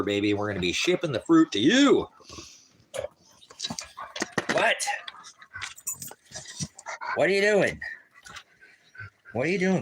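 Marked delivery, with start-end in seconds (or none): 4.5-9.8 high, startled questions; sudden high surprise; surprised. Real, not acted. Dog jumps on him.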